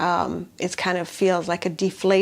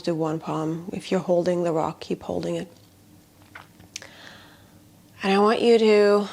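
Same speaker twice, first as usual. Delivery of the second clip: guided meditation. Shown as a demonstration. Healer guiding attention into the palms, guided meditation. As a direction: invite them to notice, leaving long silences. Leads body awareness meditation.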